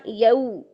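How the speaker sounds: bend the a of "यऊ" into a u; gentle diphthong on "यऊ"; glide into waw. Shown as a demonstration. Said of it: "मोड़ पैदा किया".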